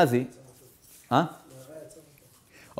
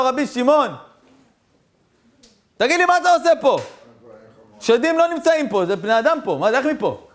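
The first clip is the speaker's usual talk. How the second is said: little demon voice; 8 semitones higher than usual. Acted. Little demon on the mast speaks.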